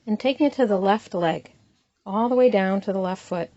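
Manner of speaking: unhurried body-scan guidance with long pauses between phrases; guided meditation. Acted. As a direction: calmly lead them through it, leaving room to breathe.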